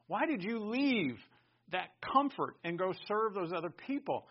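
loud rhetorical challenge; challenging question. Acted. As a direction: put the question loudly, as if demanding an answer. Imagined questioner challenges a believer.

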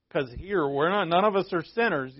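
gentle parody of a self-satisfied believer; mock self-righteous churchgoer. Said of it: "I don't know why I'm using that voice".

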